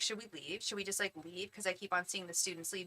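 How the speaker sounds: quiet, urgent asking; hushed asking. Retold or imitated. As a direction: murmur it so the teacher won't hear. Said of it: "I was like".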